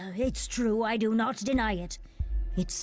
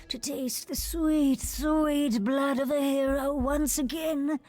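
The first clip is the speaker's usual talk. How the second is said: slow, higher, lingering relish; mild rapturous bloodlust; savoring hunger; 4 semitones higher, slower than usual. Acted. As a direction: draw the words out, lost in a craving for blood. Creature confesses craving for blood.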